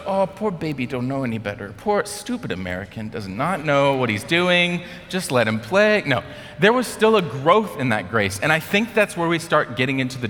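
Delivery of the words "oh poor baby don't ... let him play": exaggerated condescending sympathy; mock pity. Players indulging the clueless American, mock pitying. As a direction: coo over a helpless beginner.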